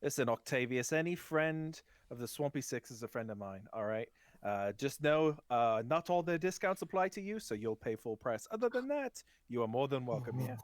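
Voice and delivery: lightly voiced accented gnome, pitch jumping up; gnome merchant. Gnome merchant welcoming a friend's friend, lightly put-on voice. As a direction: lay down terms, then make him welcome.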